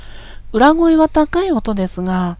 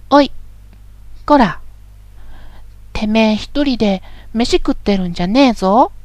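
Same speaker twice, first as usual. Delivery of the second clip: rough male speech. Shown as a demonstration. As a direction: snarl it like a thug. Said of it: "もう一度言います". (乱暴な男言葉で凄む)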